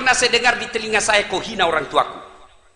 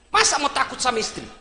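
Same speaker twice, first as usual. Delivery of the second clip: ordinary talk, nothing marked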